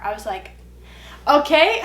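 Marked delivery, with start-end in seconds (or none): 1.3-1.8 loud, high laughing okay. Retold or imitated. Boyfriend refuses to get in car, laughing okay. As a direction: laugh it off in disbelief. Exasperated reaction to ex.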